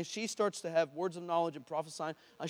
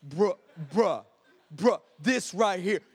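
stunned football player; 5 dB louder, slower than usual. Retold or imitated. Healed football player reacts in disbelief.

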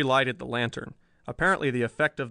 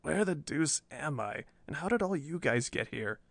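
feeble voice; 2 semitones higher, 5 dB quieter than usual. Acted. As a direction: wake up weak and dazed. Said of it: "a feeble voice asked".

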